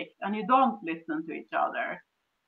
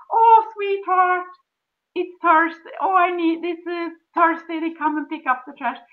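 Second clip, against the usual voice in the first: sweet request; 6 semitones higher than usual. Shown as a demonstration. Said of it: "You just say".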